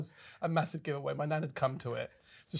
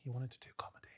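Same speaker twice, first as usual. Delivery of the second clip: quietly, as if to yourself; soft inner voice; 3 semitones lower, 14 dB quieter, faster than usual. Retold or imitated. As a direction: say it under your breath, a private nudge. Self-talk repeated, first softer.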